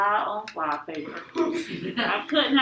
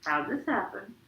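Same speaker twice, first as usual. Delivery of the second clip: soft, tender reassurance; gentle, near tears; 7 dB quieter than usual. A narrator's reading. Mama soothes her crying son, gently. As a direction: soothe quietly with a touch of tears. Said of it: "sounded like she was going to be crying".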